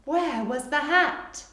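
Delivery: slow repeat with a rising end; gentle slow dictation. Shown as a demonstration. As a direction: say it again slowly for writers. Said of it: "You can pause here".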